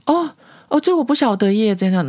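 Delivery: high, feigned innocent "oh, oh"; playing dumb. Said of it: "他就装傻". (高声装傻)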